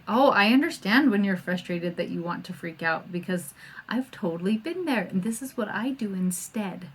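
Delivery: whispered, gentle, understanding; calm soothing whisper. Shown as a demonstration. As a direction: soothe a frustrated child in a hush. Modeling calm talk to child.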